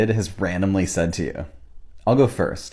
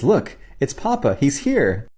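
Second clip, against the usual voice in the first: higher-pitched retold excitement; excited child; 4 semitones higher than usual. Young daughter pointing at nothing, excited. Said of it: "gets excited and says".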